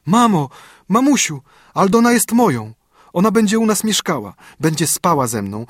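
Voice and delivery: put-on a little girl bursting with happiness to her mother; overjoyed child. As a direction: ecstatic child to mama, near tears. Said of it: "drżałam jak w gorączce i śmiałam się i płakałam".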